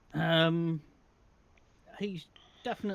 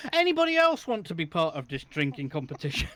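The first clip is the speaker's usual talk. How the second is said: calling out; 4 dB louder than usual. Acted. Dwarf inviting all comers to a drinking competition, calling out. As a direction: hail the whole tavern with a challenge.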